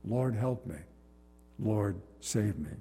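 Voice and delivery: crying out to the Lord. Retold or imitated. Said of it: "Crying out, I said".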